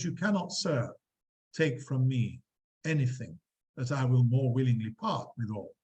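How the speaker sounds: lightly voiced Hamlet, fading to a whisper on the repeats; a hint of a mocking prince, trailing off; Hamlet's retort. Teacher reading Hamlet's reply to Polonius, lightly acted.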